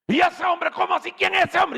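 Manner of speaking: high, loud astonished questions; startled king, voice jumping up; surprised king. Acted. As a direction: react in shock.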